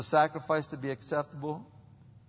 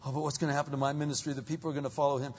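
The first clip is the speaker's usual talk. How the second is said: mock worry; 3 semitones higher, much faster than usual. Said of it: "He didn't say".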